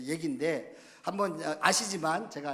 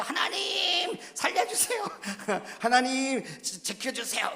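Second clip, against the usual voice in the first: high, loud, drawn-out comic plea; desperate mock prayer; 9 semitones higher, 5 dB louder than usual. Taxi passengers beg God to save them, hammed-up wail. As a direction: cry out to God as if terrified, hammed up. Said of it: "사람들이 다 기도하고".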